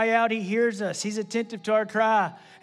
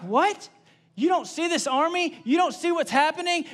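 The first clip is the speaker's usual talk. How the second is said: disbelieving; 6 semitones higher than usual. Acted. Assistant can't believe Elisha.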